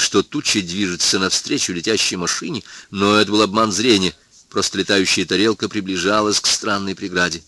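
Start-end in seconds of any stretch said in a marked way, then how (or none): none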